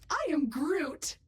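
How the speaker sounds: slow Groot impression; AI imitates Groot lightly. Shown as a demonstration. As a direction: say it slowly like Groot. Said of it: "I can sound like anyone".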